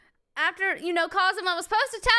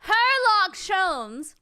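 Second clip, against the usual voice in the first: incredulous repeat; 3 dB louder, much slower than usual. Real, not acted. Player repeating the detective's silly name, incredulous. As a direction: stretch out each word in disbelief.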